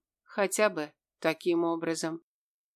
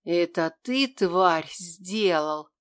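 замогильное шипение; 3 dB louder, slower than usual. Acted. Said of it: "каким-то замогильным голосом прошипела".

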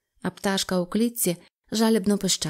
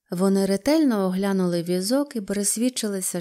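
ordinary delivery, nothing marked

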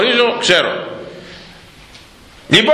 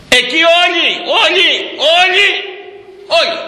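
mocking shout; 14 semitones higher than usual. Real, not acted. Mocking MPs voting raises together.

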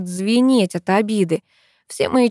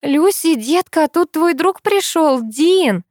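cheerful calling out; 9 semitones higher, slower than usual. A narrator's reading. Mother calling upstairs to her daughter, forced cheerful call. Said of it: "с улыбкой кричит её мать".

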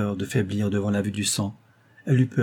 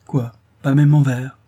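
ironically; 3 semitones higher, 7 dB louder than usual. A narrator's reading. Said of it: "dit ironiquement Langlois".

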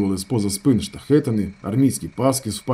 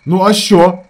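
high, loud, seething; boiling anger; 7 semitones higher, 8 dB louder, slower than usual. A narrator's reading. Ravzan boils over at his brother, angry. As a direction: boil over. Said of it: "закипав Равзан".

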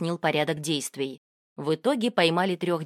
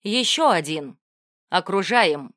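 commanding shout; 5 dB louder than usual. Acted. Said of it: "скомандовал".

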